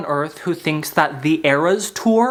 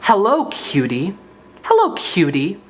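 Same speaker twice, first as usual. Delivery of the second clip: hammed-up growled hello; mock angry. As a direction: say it like a grumpy menacing creep. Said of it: "in a really angry way".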